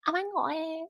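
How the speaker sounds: a hint of a Valley Girl; Valley Girl accent. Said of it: "I do the best Valley Girl accent".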